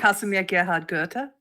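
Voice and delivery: "Casimir Gerhard Gurte" in German, rising at the end; German pronunciation. Shown as a demonstration. Host modelling the full name for co-host, German pronunciation. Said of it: "How do you say".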